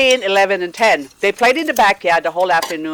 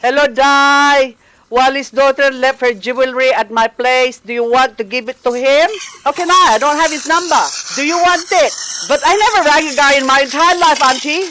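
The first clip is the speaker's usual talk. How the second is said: nervous higher voice; 6 semitones higher than usual. Retold or imitated. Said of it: "I was cringing at the voices coming out of my mouth".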